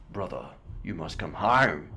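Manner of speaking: imitating "home" with the O broken into extra vowels; Australian vowel break on home. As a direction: stretch the O in "home" Aussie-style. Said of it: "he breaks on that O sound".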